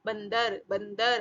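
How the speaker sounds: बंदर with a short nasal n before the d; half-nasal sound. Shown as a demonstration. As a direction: let the dot in बंदर sound as a half n in the nose. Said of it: "आधे नाक के जैसी आवाज आएगी".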